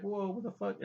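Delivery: high, startled "whoa"; mock shock. Voices startled reaction in retelling.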